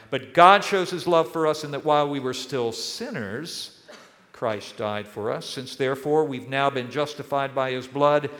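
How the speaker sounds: scripture reading. Acted. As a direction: read the passage with solemn emphasis. Reads Romans 5 scripture aloud.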